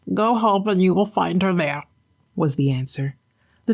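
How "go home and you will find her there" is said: lightly voiced enchanted fish, pleading; a gentle put-on fish prince; talking flounder. Flounder begging the fisherman to let him go.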